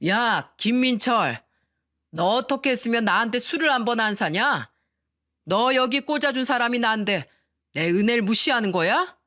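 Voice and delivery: put-on brother-in-law, drunk at the company dinner, bullying the husband in a mild drunken shout. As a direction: lean on the words like a drunk boss picking a fight. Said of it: "술 취한 목소리로 소리쳤다는 겁니다".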